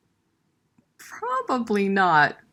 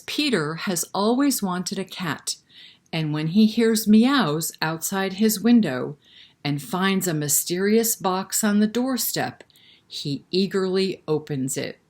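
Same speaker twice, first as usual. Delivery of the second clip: put-on reading the flap to children; story reading. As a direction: read it like a bedtime story. Reads the book flap aloud.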